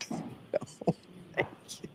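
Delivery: soft whispered no thank you; whispered polite aside. Real, not acted. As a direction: hush it under the breath.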